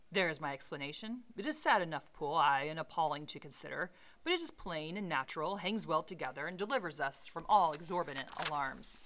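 measured read-aloud storytelling voice; story narration; reading the novel aloud. Acted. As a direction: read the Victorian prose with care.

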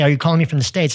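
a hint of imitated British accent. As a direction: lightly put on a British caller's accent. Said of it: "that's my British accent".

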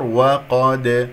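وقد with a bouncing release on the final د; strong qalqala. Shown as a demonstration. Teacher stopping to test the word, strong qalqala. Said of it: "كبرى".

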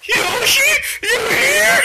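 high, eager call; excited calling out. Pretend. T-Man looking for Yoshi, high excited call.

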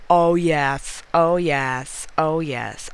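loud victorious yes, fading down; triumphant cheer. Real, not acted. Player who just won with three seconds left, triumphant. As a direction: celebrate the last-second win.

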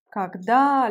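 Когда said kag-DA, the final A stressed; teacher demo, hit the last syllable of Когда; Когда with the accent on the final A. Shown as a demonstration. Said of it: "l'accent sur le A".

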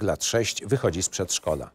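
ordinary talk, nothing marked

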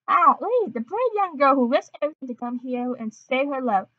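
attempted French accent. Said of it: "really can't do a Fr-, French accent".

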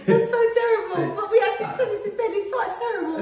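high-pitched giggly dismay; laughing. Real, not acted. Woman scolding partner's dark joke, laughing. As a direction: protest through helpless giggles.

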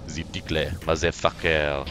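mock French accent, tossed off. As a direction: slip into a silly French accent. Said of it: "I don't know why I just went French all of a sudden".

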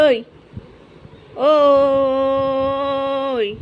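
loud sharp ওই to stop the cat; sharp call out. Real, not acted. Owner calls out sharply at biting cat, loud. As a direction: snap at the cat to quit it.

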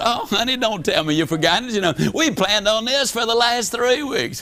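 light high sugary wife voice; wife cheerfully reminding her worn-out husband of their plans; sweet reminding wife. Retold or imitated. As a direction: coax him like a cheerful wife.

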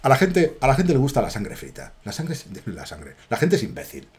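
softly spoken movie-hero imitation; film protagonist's tone. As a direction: act out the hero's line, dropping away softly. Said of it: "Pero así".

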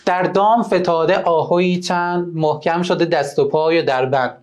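measured reading of the verse; poem recitation. Shown as a demonstration. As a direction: read the couplet aloud for the class. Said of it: "بخونیم بیت رو با هم دیگه".

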